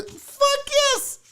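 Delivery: high, eager burst; a sudden high yes, keen to sell out. Real, not acted. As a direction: jump at the chance. Answering the sell-out debate.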